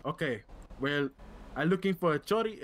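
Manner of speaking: lightly put-on Latino accent; mild hammed-up Latino accent. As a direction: talk it through a Spanish-flavored accent. Held accented character.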